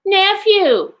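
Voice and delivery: high, drawn-out rebuke; stern, exclaimed reprimand. A narrator's reading. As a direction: cut him off with one sharp word. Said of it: "returned the uncle sternly".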